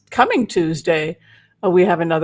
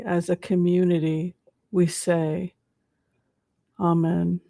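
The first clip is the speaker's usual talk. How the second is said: steady, solemn prayer voice. Acted. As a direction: lead the group in prayer. Leads a group prayer.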